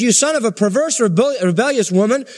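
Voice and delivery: angry king. Retold or imitated. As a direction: scold a son as an enraged father. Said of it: "And so he got mad at Jonathan".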